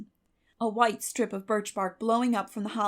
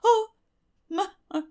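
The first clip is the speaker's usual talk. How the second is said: shaken; 9 semitones higher, 5 dB louder than usual. A narrator's reading. Breathless relief after run.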